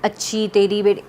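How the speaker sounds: a hint of soothing begging; mock coaxing plea. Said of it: "ऐसे-ऐसे कर, कुछ करके बोल".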